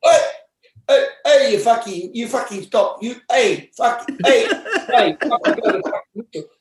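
high, loud shouting. Retold or imitated. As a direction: yell to break up the fight. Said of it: "And I went".

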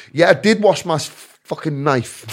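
retold bit of bravado; giving it beans. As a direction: act the big man, half-laughing. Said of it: "I started giving it beans".

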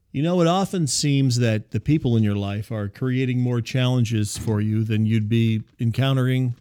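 measured ad read, slowing at the end; promo read. Acted. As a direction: read the sponsor copy straight. Reads sponsor promo copy.

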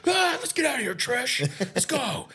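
put-on high laughing drunken call. Telling his girlfriend to leave the party, laughing and high. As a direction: laugh it off, tipsy and carefree. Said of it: "I was like".

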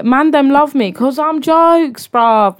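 slow, hammed-up London road slang, drawn-out jokes; mock London road accent. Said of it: "Why do we get all Cockney?".

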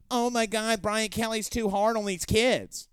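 mocking the critics in a whiny put-on voice; sarcastic imitation of complaining fans; mock whiny complaint. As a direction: whine it like a fussy fan. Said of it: "spare me the".

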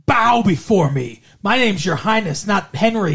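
imperious mock-royal scolding; hammed-up lordly disdain; haughty outrage. Acting out the prince turned monster.

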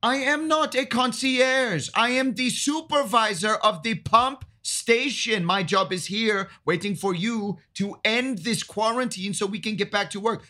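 indignant official. Acted. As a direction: bristle at the request. Supervisor bristles at the players.

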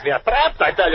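high, panicky insistence; alarmed, voice pitched high; frantic. Acted. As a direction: insist in mounting terror. Insists they are trapped.

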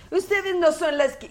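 a light mock teacher voice; mimicking the teacher. As a girl she retells mimicking the teacher, a light mock teacher voice. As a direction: parrot the teacher's scolding. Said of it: "¿Por qué la remedas?".

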